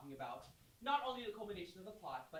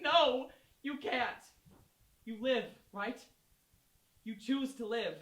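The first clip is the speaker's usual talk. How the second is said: emphatic slow; 4 semitones higher, 10 dB louder, slower than usual. Real, not acted.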